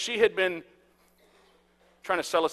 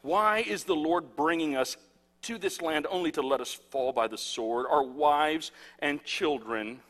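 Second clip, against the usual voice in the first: dramatic scripture reading; 2 semitones higher, 4 dB louder than usual. Acted. Preacher reads Israel's panic to congregation, dramatic scripture reading. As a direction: read it aloud with swelling drama and long stresses.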